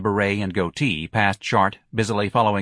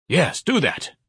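higher, eager urging; excited; 7 semitones higher, slower than usual. Acted. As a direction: jump on the idea with enthusiasm. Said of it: "Ignatius said excitedly".

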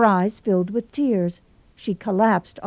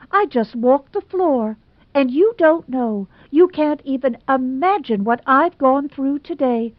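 put-on higher, theatrical lament of a jilted girl; dramatic Hazel; 7 semitones higher, 3 dB louder than usual. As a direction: overplay the wounded romantic heroine. Hazel's accusing outpouring.

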